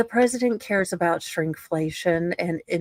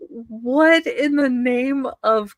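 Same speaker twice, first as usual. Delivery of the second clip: mock outrage; 5 semitones higher, 4 dB louder than usual. Real, not acted. Reading absurd court ruling aloud.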